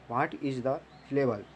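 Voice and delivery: each word spaced out slowly for notes; slow dictation. Shown as a demonstration. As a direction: say it slowly so students can write. (धीरे-धीरे लिखवाते हुए)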